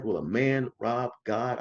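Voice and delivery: slow, drawn-out preacher's challenge; impassioned preacher. Retold or imitated. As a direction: imitate a preacher putting everything into it. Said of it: "they will put everything into it".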